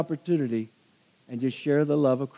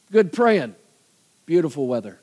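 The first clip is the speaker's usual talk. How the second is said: Rodney Dangerfield. Retold or imitated. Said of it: "He sounded like Rodney Dangerfield".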